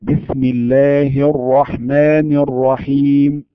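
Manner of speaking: measured tajweed recitation of the basmala; slow Quran recitation. Shown as a demonstration. Teacher demonstrating recitation to students. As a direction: recite it slowly and carefully. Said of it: "إذا قال المرء منا".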